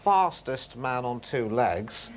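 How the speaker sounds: slow, lightly voiced record-book presenter; a hint of a stiff announcer, drawn out; Norris McWhirter impression. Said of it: "that was Norris McWhirter".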